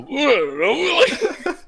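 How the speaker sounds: high, garbled mock babble; comic inarticulate noise with laughter; wordless gesturing noise. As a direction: sputter wordlessly as if pointing frantically. Imitates wordless pointing at bar.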